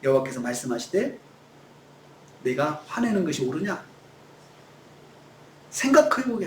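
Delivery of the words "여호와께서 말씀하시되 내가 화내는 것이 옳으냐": calm question. Shown as a demonstration. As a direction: ask gently, not scolding. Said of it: "근데 그렇게 안 하세요". (요나에게 부드럽고 낮게 되묻듯)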